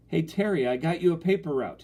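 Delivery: high, loud excited call; breathless shout. A narrator's reading. Brother rushes in with news, shouting breathlessly. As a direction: burst in calling out news. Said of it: "he shouted breathlessly".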